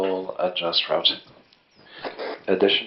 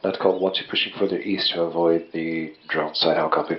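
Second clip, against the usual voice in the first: loud, distorted radio call; shouting through a field radio; crackly military radio; 3 semitones lower, 12 dB louder than usual. Real, not acted. Squad member over radio.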